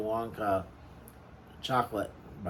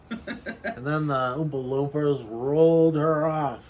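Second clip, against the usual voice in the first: laughing; 5 semitones higher, 7 dB louder than usual. Real, not acted. Laughing while telling story.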